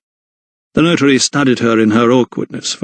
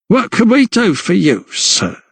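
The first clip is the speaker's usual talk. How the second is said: higher, rough-edged landlady voice; a knowing barmaid sizing up a stranger; tavern landlady; 9 semitones higher than usual. A narrator's reading. Landlady greets the notary with a wry, knowing voice. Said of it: "The board greeted him with a wry smile".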